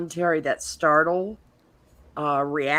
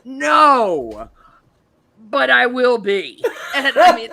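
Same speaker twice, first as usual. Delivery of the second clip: loud laughing reply; laughing through the words; 6 semitones higher, 7 dB louder, slower than usual. Real, not acted. Laughing at own injury story.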